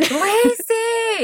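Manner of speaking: very high, drawn-out name call; retold excited text. Host voicing her friend's big engagement text, excited squeal. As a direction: imitate an all-caps message as a squeal. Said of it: "It was just a big text".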